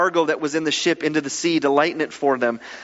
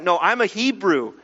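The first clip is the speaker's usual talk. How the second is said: mildly proud, firm correction; understated national pride in the voice; proud assertion; 3 semitones higher than usual. Acted. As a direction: declare it with a touch of pride. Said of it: "a little bit of pride maybe and nationalism".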